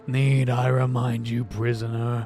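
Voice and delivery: put-on wheezing, gasping old woman; wheezy voice. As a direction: wheeze through each phrase. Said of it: "that wheezy voice".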